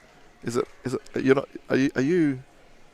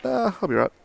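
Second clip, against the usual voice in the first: casual Rocky; 9 semitones higher than usual. Retold or imitated.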